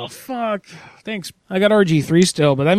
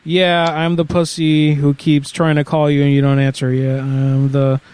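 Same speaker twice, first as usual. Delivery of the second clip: reading as he types; slower than usual. Acted. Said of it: "Let me write that".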